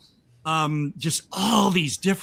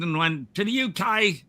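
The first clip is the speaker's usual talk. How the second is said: put-on New Zealand accent, higher; attempted New Zealand accent; 4 semitones higher than usual. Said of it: "I'm trying to do an accent now".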